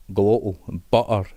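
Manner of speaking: "glottal" and "butter" with the T's swallowed; glottal stop. Shown as a demonstration. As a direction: drop the middle T of "butter" to a catch in the throat. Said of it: "we use a glottal stop".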